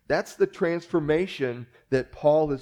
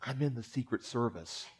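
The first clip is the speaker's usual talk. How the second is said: hushed, much softer and lower, conspiratorial; whispered confession; 4 semitones lower, 11 dB quieter than usual. Retold or imitated. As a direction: lean in and share it secretly. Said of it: "leans over and whispers".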